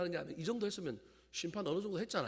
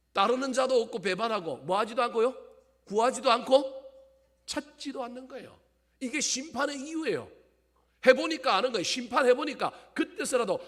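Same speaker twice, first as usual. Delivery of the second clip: loud, high-pitched preaching at full force; prédication enflammée; 8 semitones higher, 13 dB louder than usual. Real, not acted. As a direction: hammer the accusation into the congregation, voice raised.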